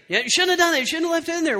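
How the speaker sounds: high, scolding wife imitation; acted-out angry reproach; mock anger. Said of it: "she responds in anger".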